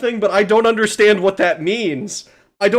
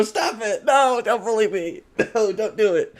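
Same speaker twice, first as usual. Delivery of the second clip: mock whiny plea; 4 semitones higher than usual. Mock pleading to chat.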